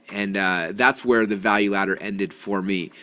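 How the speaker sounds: ordinary talk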